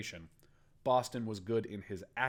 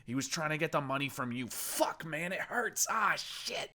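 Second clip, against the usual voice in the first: higher, louder, pained confession; crying through pain; 7 semitones higher, 5 dB louder than usual. Acted. Injured captive confessing to Boston, crying through pain. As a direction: blurt it out in agony. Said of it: "he cried through the pain".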